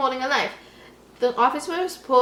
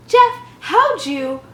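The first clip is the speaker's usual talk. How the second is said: slow, louder, shocked question; stunned; 5 semitones higher, 6 dB louder, slower than usual. Acted. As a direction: gasp it out in disbelief. Yule stunned by Jeff.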